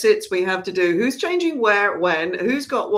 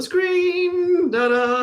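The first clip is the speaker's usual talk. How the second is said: higher sing-song ta-da; playful fanfare; 10 semitones higher, much slower than usual. Pretend. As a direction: sing out a drawn-out, high flourish. Mock fanfare revealing the title.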